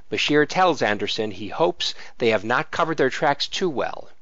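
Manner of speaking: measured read-aloud narration; synopsis reading. Acted. Co-host reads the comic's synopsis to listeners, measured narration. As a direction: read out a prepared plot summary.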